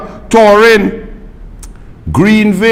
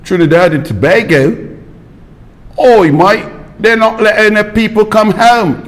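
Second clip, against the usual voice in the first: hammed-up British student accent; mock British accent, pub chatter; put-on British accent. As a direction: mimic a drunk British student. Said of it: "wrong accent".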